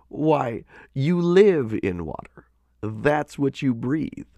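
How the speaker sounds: lifted pitch, slowing at the end; amused otter. A narrator's reading. Otter telling fishes they live in water, amused. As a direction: explain the obvious with light amusement. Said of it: "laughed the otter".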